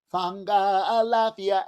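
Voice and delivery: calling out. Shown as a demonstration. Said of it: "I'd say".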